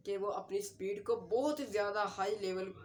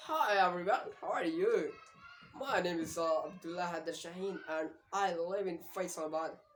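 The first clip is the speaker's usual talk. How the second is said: a demo of a clear, slow American English accent; 3 semitones lower, much slower than usual. Shown as a demonstration. Teacher demonstrates how Americans introduce themselves, American accent. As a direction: say every word fully, American style. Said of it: "American people कहते हैं".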